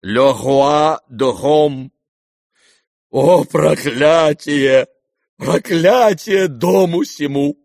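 slow, loud tragic declamation; cursing the house like a stage king; theatrical curse. A narrator's reading. The general curses his home to Kolya, slow and loud.

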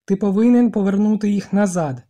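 громко, с нажимом на «повинен»; требуй зло и громко; гневное требование. A narrator's reading. Ральф требует очки.

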